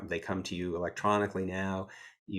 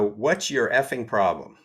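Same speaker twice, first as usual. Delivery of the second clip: retold tirade; 4 dB louder than usual. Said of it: "went on this total tirade".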